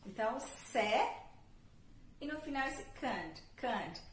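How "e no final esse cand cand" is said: "cand" said with a soft schwa vowel; schwa ending. Shown as a demonstration. Teacher shows students the schwa sound. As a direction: drop to a light schwa in "cand". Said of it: "Um A bem sutil, que é o schwa".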